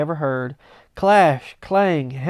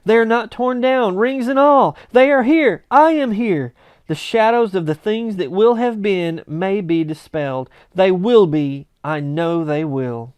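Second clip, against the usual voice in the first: higher and louder, bubbling over; giddy joy; 3 semitones higher, 5 dB louder than usual. Acted. Scrooge rejoicing at his bed curtains, excited. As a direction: babble happily.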